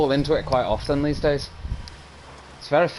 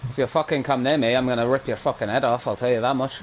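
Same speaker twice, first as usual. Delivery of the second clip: put-on Indian accent. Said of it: "You do a good Indian accent".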